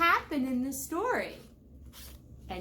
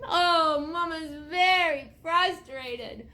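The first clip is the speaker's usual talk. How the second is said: dismayed groan. Acted. Reader voices Mama's dismay at George.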